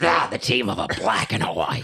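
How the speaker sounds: the most evil demonic voice. Joking with the others, who then tease the sound, in an evil demon voice. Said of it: "Why you gotta sound like the most evil demon?".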